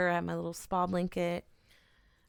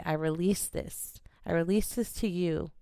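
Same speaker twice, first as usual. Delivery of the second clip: release affirmation demo. Shown as a demonstration. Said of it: "we're just gonna say".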